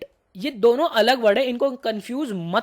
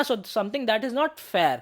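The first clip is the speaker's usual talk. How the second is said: slow dictation; much slower than usual. Shown as a demonstration. Teacher repeats definition slowly.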